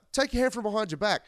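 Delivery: high, fast barked order; hammed-up trucker command; mock trucker demand. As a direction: order him like a tough trucker.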